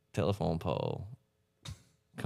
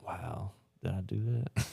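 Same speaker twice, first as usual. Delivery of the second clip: mock innocent; 6 dB quieter, slower than usual.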